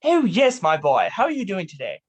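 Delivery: put-on booming "Oh, yes, my boy" then easing down; Doctor Cromwell. Host shows the guest how Doctor Cromwell greets him, hearty. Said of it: "what Doctor Cromwell sounds like".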